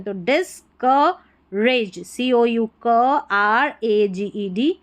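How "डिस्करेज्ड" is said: "डिस्करेज्ड" broken slowly into dis-ka-raged, OU as a short "uh"; sounded-out syllables. Shown as a demonstration. Teacher showing how OU sounds, "डिस्करेज्ड" in slow syllables. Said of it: "इसको अ करके pronounce करें".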